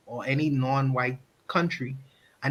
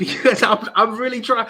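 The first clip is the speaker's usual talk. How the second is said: laughing; 7 semitones higher, 6 dB louder than usual. Real, not acted. Laughing while explaining himself.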